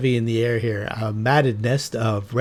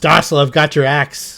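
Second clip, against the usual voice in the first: loud shouting in a character voice; 4 semitones higher, 6 dB louder than usual. Voicing a character during a game turn: character shouting. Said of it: "he shouts".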